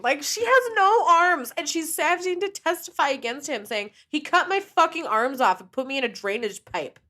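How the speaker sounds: high, loud incredulous rant; real outrage. Real, not acted. Host recounting a maimed girl's testimony, outraged. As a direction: let indignation push the voice up.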